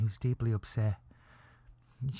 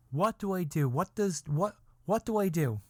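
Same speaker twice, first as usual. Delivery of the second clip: agonized question; 5 semitones higher than usual. Real, not acted. Comic dilemma, rising pitch.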